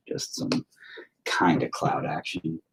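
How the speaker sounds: soft unvoiced whisper to himself; whispered slowly. Real, not acted. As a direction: breathe the words while concentrating. Whispering while painting.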